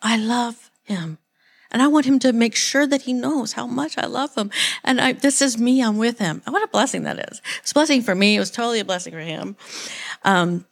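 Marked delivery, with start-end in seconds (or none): 0.0-6.4 lightly voiced God, higher and tender; mild tender voice of God; voicing God. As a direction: speak God's love gently, a touch higher. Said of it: "Because God's like".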